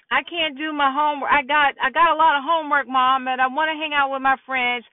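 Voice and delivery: quick, run-together pleading; hurried kid excuse. Acted. Son to mom about too much homework, hurried pleading. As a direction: rush through it like a teen begging off.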